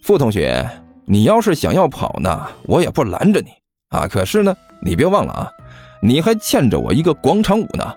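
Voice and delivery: smug, leisurely reminder; swaggering. Acted. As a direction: lord it over him casually. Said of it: "大模大样地看着傅晨说道". (大模大样地提醒)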